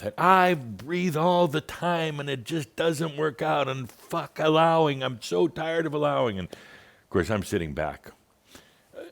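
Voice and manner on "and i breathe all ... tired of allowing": much higher, slow whiny complaint; hammed-up fed-up woman; exasperated caller. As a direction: whine it out, fed up.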